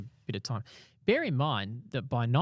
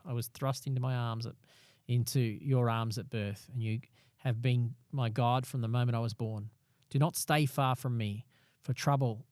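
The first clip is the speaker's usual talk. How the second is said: measured psalm reading with emphatic phrasing; deliberate, declaimed verse; scripture reading. Acted. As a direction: read the psalm aloud with earnest weight. Reads a psalm aloud.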